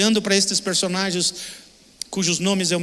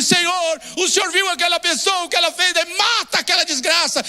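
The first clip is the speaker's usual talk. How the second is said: much higher, shrill-edged mock plea for revenge; mock vengeful prayer; 11 semitones higher, 3 dB louder than usual. Mocking a prayer for vengeance, hammed-up plea. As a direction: ham up a believer begging God to strike an enemy. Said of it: "Orar aqui não é no sentido".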